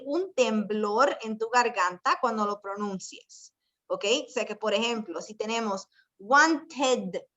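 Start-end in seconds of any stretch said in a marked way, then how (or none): 6.2-7.2 "wanted" drawn out in two syllables, ending in voiced id. Shown as a demonstration. Teacher models the id sound for class, "wanted" ending in a sounded -id. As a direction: say "wanted" slowly with a clear -id ending. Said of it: "vamos a pronunciar la E como si fuese I".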